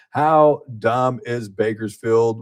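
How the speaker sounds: slow, drawn-out tease; host teasing the listeners about the city, slow; teasing slow question. Acted. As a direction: stretch it out for the hook. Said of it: "teasing show question".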